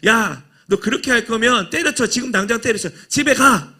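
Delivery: mock scolding, as if telling lazy trainees to go home; angry coach. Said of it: "그래서 이 감독이 너무 화가 났어요".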